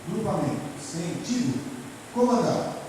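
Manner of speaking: comando de instrutor em etapas; voz de comando. Shown as a demonstration. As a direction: anuncie a ordem à tropa. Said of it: "Eu digo". (ordem de instrutor, pausada)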